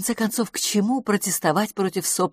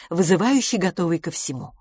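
usual speaking voice

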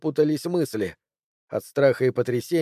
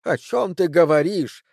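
mocking mimicry; 4 semitones higher than usual. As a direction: parrot her words back with scorn. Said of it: "передразнил он её".

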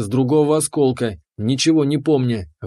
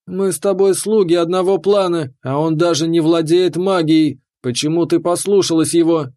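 higher, upset fairy voice; indignant fairy; 3 semitones higher than usual. Acted. The fairy reproaches the keeper for obeying him. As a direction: plead in disbelief, a bit higher.

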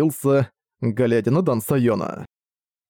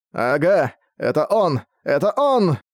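excited high shout, rising higher; 3 semitones higher, slower than usual. A narrator's reading. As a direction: cry out, pointing in alarm. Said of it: "с криком".

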